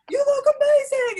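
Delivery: high, loud gushing praise; excited compliment. Retold or imitated. Becky complimenting the fan, high loud gush. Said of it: "She's like".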